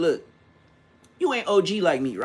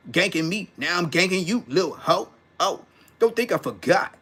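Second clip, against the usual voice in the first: OG emphasis. Retold or imitated. OG homie calling out an old friend, heavy rhythmic emphasis. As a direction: deliver it like a rapped threat, leaning on rhymes. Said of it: "the way they put the emphasis on the word".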